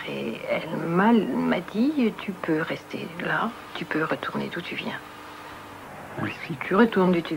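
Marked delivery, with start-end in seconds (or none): 2.2-5.0 chuchoté, presque sans voix; murmure de la marraine. Retold or imitated. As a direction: souffle les mots comme une morte apaisée. La marraine morte lui répond. (la marraine défunte lui parle, en chuchotant)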